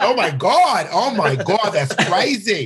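put-on very slow New Jersey accent, high and drawn out. Retelling how locals dropped their accent: imitating a new jersey accent. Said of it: "they were from New Jersey".

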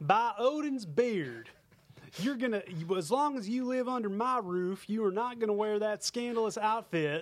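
high hillbilly voice. Improvising Odin scolding his daughter, in a hillbilly Odin voice. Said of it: "I like your hillbilly Odin voice".

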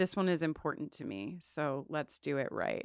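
play-acted grave, near-tearful, serious, sincere voice. Retelling a scene where Mulder ends the plan: imitating Mulder's serious, teary tone. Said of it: "he gets real serious and kinda teary".

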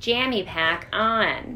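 put-on soft sorority girl voice. Imitating the Jammy Pack's built-in voice prompts: Jammy Pack sorority-girl voice. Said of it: "it sounds like a sorority girl".

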